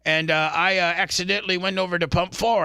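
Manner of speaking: a hint of a Jamaican man, pleading he paid; mock Jamaican accent. Stranger at the gas pump explaining he paid, in a light mock Jamaican accent. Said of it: "he's like".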